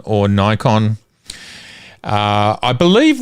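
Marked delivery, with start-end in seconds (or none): 0.3-1.0 "Nikon" with a long i as in eye; American-style Nikon. Shown as a demonstration. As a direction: say Nikon as NYE-kon. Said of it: "asks the question of the ages".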